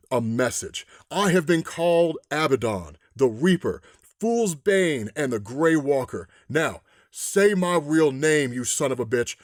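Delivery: a hint of a calm, menacing villain; menacing man in white. Man in white reveals himself.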